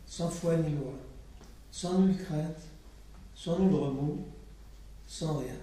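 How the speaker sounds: steady incantatory list, each item set apart; litany recital. Acted. Poet reciting a litany to the audience, incantatory.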